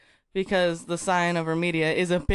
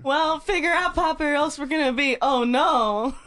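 a hint of a panicked radio call, a little higher; mock-urgent radio plea; lightly voiced Checkler; 5 semitones higher than usual. Reading a fan story, Checkler radios Poppy in mild panic. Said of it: "said Checkler on the radio".

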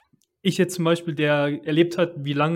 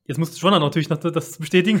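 laughing; 5 dB louder, faster than usual. Real, not acted. Teasing remark, laughing.

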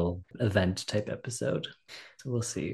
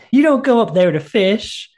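higher, louder accusing wife; jealous wife; 10 semitones higher, 9 dB louder than usual. Retold or imitated. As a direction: snap it at him like a wife who knows. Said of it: "she goes".

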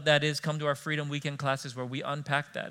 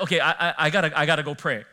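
laughing; 6 dB louder than usual. Retold or imitated. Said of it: "so I was like".

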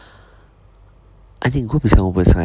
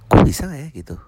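lightly anxious self-questioning, pitched up high; takut, ragu; 8 semitones higher than usual. Retold or imitated. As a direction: wonder aloud in a higher, doubting voice. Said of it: "gue suka mulai takut". (agak takut dan ragu, nada tinggi)

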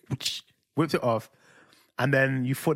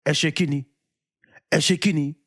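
mock startled uncle; 3 semitones higher, 3 dB louder than usual. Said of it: "He said in Yoruba".

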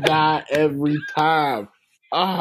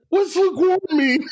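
high, baffled. Retold or imitated. Confused question in fire drill.

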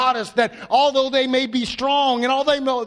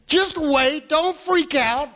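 firm reassurance; 6 semitones higher, slower than usual. Retold or imitated. Elisha telling his servant not to panic, firm reassurance. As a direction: stop the panic firmly. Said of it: "He says".

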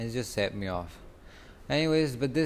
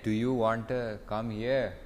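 slowed, spaced-out question; each word drawn out; slow repeat; slower than usual. Real, not acted. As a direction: repeat it slowly for someone who didn't hear. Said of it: "I said".

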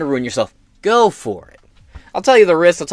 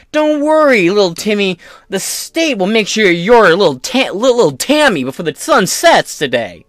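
mock sneer; 4 semitones higher, 5 dB louder than usual. Mock state soothing Timmy.

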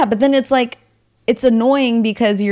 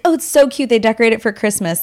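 excited; 3 semitones higher, faster than usual. Retold or imitated. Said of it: "I was like".

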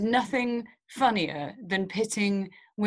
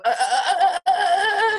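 laughing fluster; 13 semitones higher, 8 dB louder than usual. Real, not acted. Groping for a word, laughing.

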